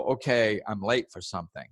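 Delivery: steady and settled; unhurried acceptance; calm. Shown as a demonstration. Same person running late, calmly accepting it. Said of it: "or you can just go".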